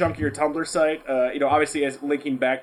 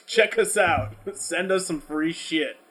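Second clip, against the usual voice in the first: mock promo laughing. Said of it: "Just be like".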